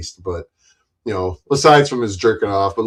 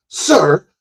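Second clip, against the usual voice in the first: much higher, animated character exchange; acted movie dialogue; 13 semitones higher, 4 dB louder, slower than usual. Streamer replaying The Jerk scene, high acted voices. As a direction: trade the quoted lines in a high cartoonish voice.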